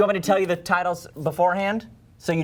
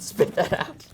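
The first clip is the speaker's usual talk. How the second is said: whispered order; slower than usual. Acted. Repeat of the order.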